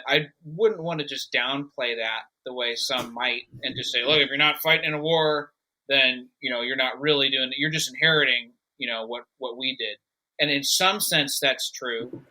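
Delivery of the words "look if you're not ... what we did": lightly voiced scolding boomer. Boomer talking down to a younger generation, lightly voiced boomer. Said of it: "That's my boomer voice".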